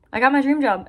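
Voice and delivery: excited. Real, not acted. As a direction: let the excitement lift your voice. Repeats the good news, now excited.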